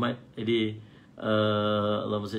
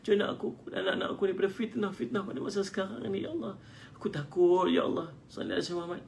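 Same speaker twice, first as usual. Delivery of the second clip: tender fearful plea; 7 semitones higher than usual. Shown as a demonstration. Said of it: "penuh lemah lembut".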